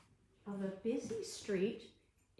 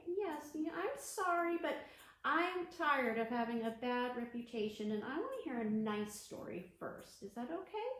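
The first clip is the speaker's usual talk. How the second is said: cockroach puppet; 2 semitones higher than usual. Pretend. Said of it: "cockroach puppet talks back".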